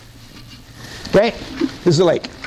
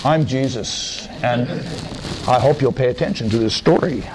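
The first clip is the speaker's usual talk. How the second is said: calm Jesus; 3 semitones lower than usual. Acted. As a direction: speak as a patient Jesus. Preacher plays Jesus.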